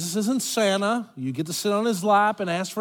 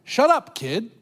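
dismissive shout; 4 semitones higher than usual. Retold or imitated. Adults brushing off a child, dismissive shout. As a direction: bark it at a child like an annoyed adult.

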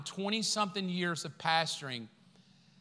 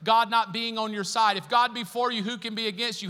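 voicing Jesus; 2 semitones higher, 5 dB louder than usual. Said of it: "Jesus said".

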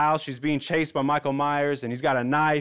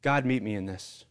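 lowered, quiet plea to God; simple prayer; 5 semitones lower, 4 dB quieter than usual. Retold or imitated. Pastor shares what he has prayed, low and prayerful. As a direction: drop into a brief, understated prayer. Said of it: "that is probably something I pray".

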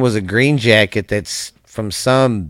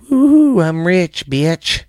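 high whooping cheer; gleeful shout of sudden riches; excited; 7 semitones higher, slower than usual. Pretend. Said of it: "It'd be like".

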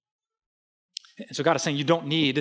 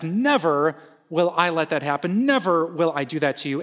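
firm, emphatic "Never". Retold or imitated. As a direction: stress on "Never" each time. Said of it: "he adds the emphatic".

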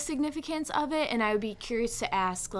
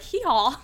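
donkey bray; 4 semitones higher, 6 dB louder than usual. Shown as a demonstration. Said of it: "I don't even wanna do it 'cause I'll embarrass myself".

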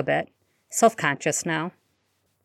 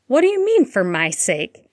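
defiant; 4 semitones higher, 4 dB louder than usual. Acted. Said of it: "defiant and daring expression".

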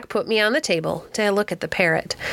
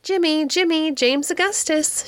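parrot calling; 8 semitones higher than usual. A narrator's reading. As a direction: squawk the name out like a parrot. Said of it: "she said".

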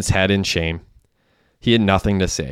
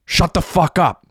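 angry shout; 9 semitones higher than usual. A narrator's reading. Gunman to the screaming wounded Derek, angry shout. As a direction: shout him down.

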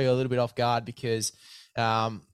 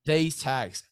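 hyped ad read. Acted. Host plugging a discount code to listeners, mock-outraged ad read. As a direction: push the discount like it's a steal. Host wraps sponsor pitch.

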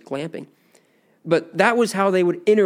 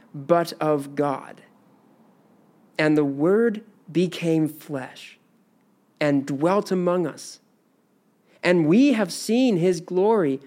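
scripture reading. Acted. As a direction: let each phrase land, reverent and steady. Reads verses ten to fourteen.

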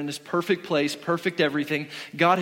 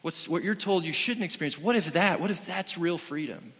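lightly voiced serpent luring with questions, softer; sly tempting serpent; 4 dB quieter than usual. Preacher voicing Satan tempting Eve, softer and sly. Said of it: "Satan is starting to say".

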